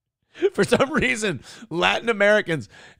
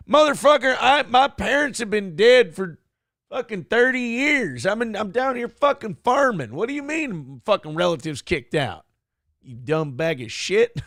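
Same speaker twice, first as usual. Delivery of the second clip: mock angry farmer. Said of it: "You got some guy going".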